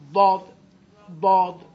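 باد pushed out loud with a burst of breath; loud breathy demo of باد; forced air demo. Shown as a demonstration. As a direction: blow باد hard through the teeth. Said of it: "اینجوری برید".

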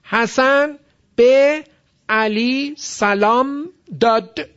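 "حسن به علی سلام داد" word by word, very slow, each end closed; high, halting "حسن به علی سلام داد", endings left bare; every word in sukun. Shown as a demonstration. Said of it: "نگاه کن همه سکونه".

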